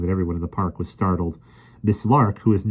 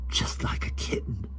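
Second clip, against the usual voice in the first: soft unvoiced whisper; 8 dB quieter than usual. A narrator's reading. Michael whispers to Jane, soft whisper. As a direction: whisper in wonder. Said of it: "whispered Michael".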